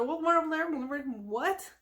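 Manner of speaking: indistinct, puzzled muttering, imitated; perplexed mumbling. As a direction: mumble in confusion to each other. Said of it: "they're just mumbling to each other".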